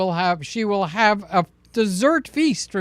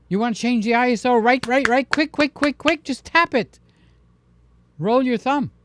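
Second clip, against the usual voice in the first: hurried urging; 6 semitones higher than usual. Real, not acted. Urging quick taps in tutorial.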